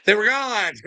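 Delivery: laughing through the words. Real, not acted. Gleeful laugh telling a viewer the shift vanished. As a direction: giggle it out, tickled.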